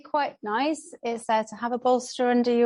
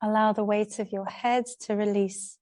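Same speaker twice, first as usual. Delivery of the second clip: calm yoga teacher's instruction with long pauses; unhurried, spaced-out yoga guidance; guided relaxation. Real, not acted. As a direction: guide a class gently into rest, pausing between phrases. Leads a relaxation practice.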